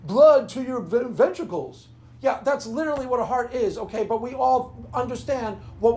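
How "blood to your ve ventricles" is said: slow, loud mock nerd voice; mocking an atheist. Mocking a literal-minded atheist, slow and loud. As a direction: drag it out like a smug know-it-all. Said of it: "Katie goes".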